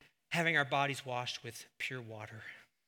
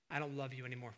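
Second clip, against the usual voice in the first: hurtful quote; 3 semitones lower, 7 dB quieter, faster than usual. Acted. Parent rejecting a child.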